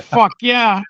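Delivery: retold thrilled fuck yeah; delighted exclamation. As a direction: cheer it like the car came back brand new. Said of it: "I'm like".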